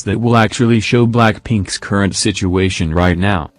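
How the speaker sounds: monotone text-to-speech voice; flat synthetic robot read. Real, not acted. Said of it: "I'm using the robot voice".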